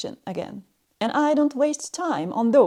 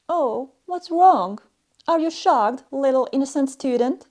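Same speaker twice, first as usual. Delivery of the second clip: mock sympathy; 2 semitones higher than usual. Strict teacher taunting little innocent student, mock sympathy. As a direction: feign pity for a shocked beginner.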